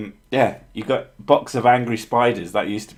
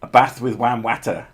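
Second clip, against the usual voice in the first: mock posh accent. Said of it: "That's what you sound like".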